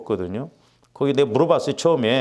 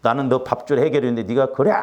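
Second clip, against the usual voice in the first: forceful rebuke. Retold or imitated. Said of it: "얼마나 강력하게 기도가 나오는데".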